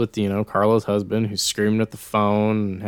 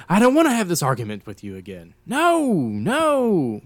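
mock argument voice; 8 semitones higher than usual. Mocking Carla's husband arguing.

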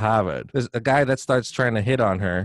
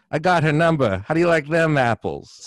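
gloating; 5 semitones higher than usual. Retold or imitated. Gloating at the rival.

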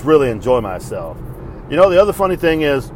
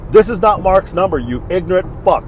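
exasperated correction; 3 semitones higher, 3 dB louder than usual. Acted. Answering yet another wrong-number message.

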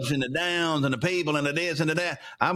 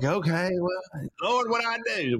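exasperated Moses, imitated; 3 semitones higher than usual. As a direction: lightly act out a put-upon prophet. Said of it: "and Moses like".

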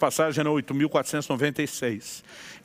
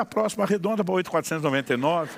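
joking with a laugh; 2 semitones higher, faster than usual. Retold or imitated. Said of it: "Tava só brincando com ele".

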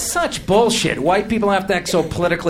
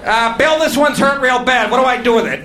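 worried nerd voice; 6 semitones higher, 3 dB louder than usual. Acted. Microsoft guy worried.

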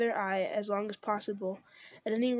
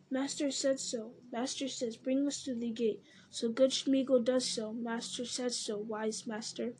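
Gollum. Acted. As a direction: plead like a fawning creature. Gollum voice in read story.

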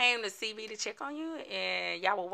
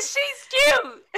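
much higher and louder, gushing; high cute remark; 7 dB louder than usual. Retold or imitated. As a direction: coo it teasingly. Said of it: "I said".

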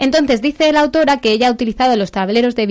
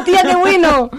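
loud, higher burst of surprise; surprised exclamation; 8 semitones higher, 5 dB louder than usual. Real, not acted. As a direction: blurt it out, caught off guard. Reacts to the oracle page.

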